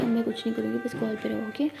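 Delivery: soft coaxing. Acted.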